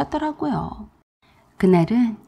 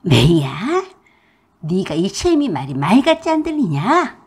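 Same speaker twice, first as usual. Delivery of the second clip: angry yell; 2 semitones lower, 4 dB louder than usual. A narrator's reading. Mother-in-law yelling.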